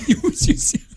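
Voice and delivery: put-on laughing lisped baby talk. Shown as a demonstration. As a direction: lisp it like a toddler. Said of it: "If every rap was in baby voice".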